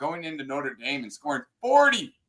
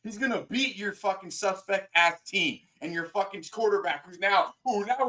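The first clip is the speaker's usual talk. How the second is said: raised, higher voice in heated argument; heated yelling; 6 semitones higher than usual. Real, not acted. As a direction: shout him down in the debate. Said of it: "Can I talk in a normal voice".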